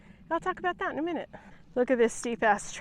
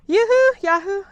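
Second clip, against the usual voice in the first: trying out cheers; 8 semitones higher, 5 dB louder than usual. Shown as a demonstration. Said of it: "woohoo or yahoo".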